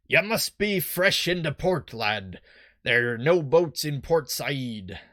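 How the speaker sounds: slow, rough attempt at Scottish; bad Scottish accent. Boat salesman greets a newcomer in a badly faked Scottish accent. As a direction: have a shaky go at a Scottish accent. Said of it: "can I do a Scottish accent? I'm really bad at it".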